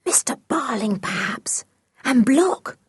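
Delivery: hushed, wary guess in a whisper. A narrator's reading. George guessing who is coming, whispering. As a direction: whisper it under your breath. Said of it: "whispered George".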